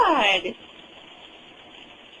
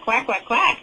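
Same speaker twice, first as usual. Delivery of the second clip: duck quack. Shown as a demonstration. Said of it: "What does the doggy say?".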